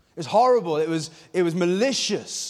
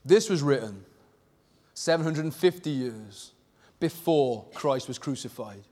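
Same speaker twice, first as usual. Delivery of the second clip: hushed; 5 semitones lower, 5 dB quieter than usual. Real, not acted. Solemn hushed statement.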